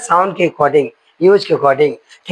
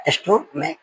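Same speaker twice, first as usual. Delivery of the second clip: laughing repeat; 3 semitones higher, 6 dB quieter, slower than usual. Shown as a demonstration. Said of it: "यहाँ पे इसका meaning देखो".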